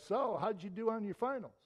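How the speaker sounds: bright, upbeat, genuinely curious; friendly question. Shown as a demonstration. Friend greeting a student after finals, friendly curious ask. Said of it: "your friend comes up to you and says".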